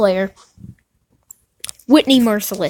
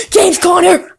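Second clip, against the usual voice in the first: excited cry; 6 semitones higher than usual. Real, not acted. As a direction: call out the name in a thrill. Gasps at a big pull.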